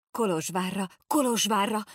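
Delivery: eager cry. Acted. Boys jump up eagerly.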